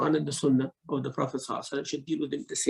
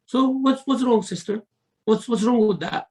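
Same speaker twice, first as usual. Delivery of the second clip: loud, high, brash chat with a buddy; casual loud talk; 6 semitones higher, 4 dB louder than usual. Shown as a demonstration. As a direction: talk like shouting to a friend. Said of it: "Like this".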